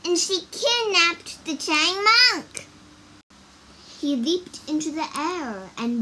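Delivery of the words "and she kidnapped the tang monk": loud, high-pitched outcry; crying out. A narrator's reading. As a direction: raise the alarm, high and loud. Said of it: "cried Wukong".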